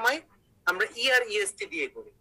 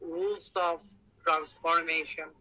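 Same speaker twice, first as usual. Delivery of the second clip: drawn-out, word by word; slow dictation; 3 semitones lower, much slower than usual. Shown as a demonstration. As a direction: say it slowly as if writing it out. Writing out the heading while speaking. (লেখার তালে ধীরে টেনে বলা)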